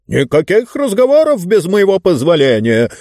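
indignant, high-pitched shout; Mister Speaker crying out. A narrator's reading. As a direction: call it out as an imperious order. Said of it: "снова выкрикнул мистер Спикер".

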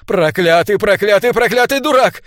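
rising, desperate cursing; almost sobbing. A narrator's reading. Sir Andrew rains curses, close to sobbing. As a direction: climb in pitch with each curse, near a sob. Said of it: "почти всхлипнул он".

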